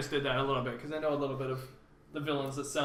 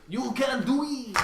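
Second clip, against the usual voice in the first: cheering voice; 7 semitones higher, slower than usual. Pretend. Echoing movie quote.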